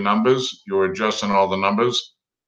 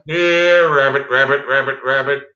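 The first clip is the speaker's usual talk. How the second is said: high sing-song call to a rabbit; 4 semitones higher, 4 dB louder than usual. Pretend. Man calling his pet rabbit, high sing-song. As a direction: coax the rabbit in, pitched up. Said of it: "I can do a rabbit call".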